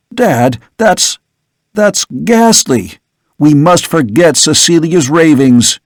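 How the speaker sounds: mild horrified outburst; anguished cry. Acted. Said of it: "a cry burst through his lips".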